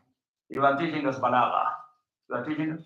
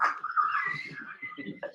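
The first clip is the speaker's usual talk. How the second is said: laugh; 10 dB quieter than usual. Real, not acted. Laughter after the punchline.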